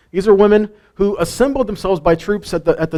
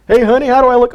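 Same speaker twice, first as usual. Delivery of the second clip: high, slightly louder playful wife voice; mock wife asking; 7 semitones higher, 4 dB louder, faster than usual. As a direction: play the wife fishing for a compliment. Wife asks husband about looks.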